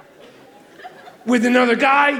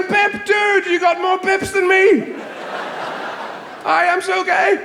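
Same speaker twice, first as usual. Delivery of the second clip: manchild gamer dude; 10 semitones higher, slower than usual. Retold or imitated. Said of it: "And they're going".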